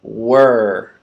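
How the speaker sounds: Were said alone. Shown as a demonstration. Teacher modeling the start of world, clear. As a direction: say Were with a curled R. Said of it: "start at the beginning sound".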